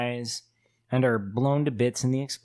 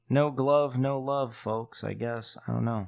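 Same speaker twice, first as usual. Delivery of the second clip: defeated. Real, not acted. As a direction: let it sag and fade out in defeat. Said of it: "Why do you sound so defeated?".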